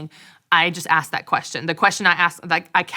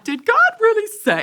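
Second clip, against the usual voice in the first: much higher, put-on voice of God asking; mock God voice; 4 dB louder than usual. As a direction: parody God questioning himself. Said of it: "God's not going".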